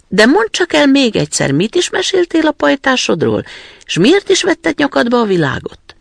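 put-on high, loud, bossy robber girl; a wild little robber girl, brash and high. Robber girl questions Gerda. (magas, harsány rablólány)

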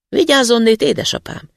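high, loud warning call to father; shouting a warning. A narrator's reading. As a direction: call out across the trees to father. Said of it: "kiáltotta". (kiáltás, magasan és hangosan)

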